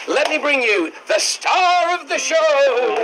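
slow, drawn-out build to the big name; stretched ringmaster reveal; showman's introduction. Acted. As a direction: announce the star with a flourish. Introduces the performer to audience.

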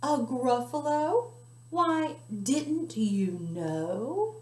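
hushed, slow, secret telling; spooky whisper. Acted. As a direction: scare the fox with a whisper. Mouse describes monster secretly.

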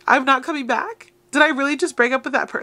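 gasping at your own nerve; shocked disbelief. Retold or imitated. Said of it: "you're like".

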